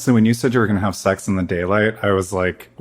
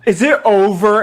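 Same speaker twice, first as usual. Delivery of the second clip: high, loud impatient mock question; 11 semitones higher, 6 dB louder than usual. Co-host mimics partner waiting on the editing, impatient. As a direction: pitch it way up, pestering to leave. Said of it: "You were so impatient".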